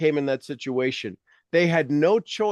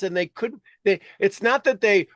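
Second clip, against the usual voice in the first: ordinary delivery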